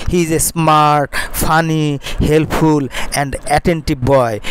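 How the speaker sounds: slow dictation. Shown as a demonstration. Teacher dictates model sentence.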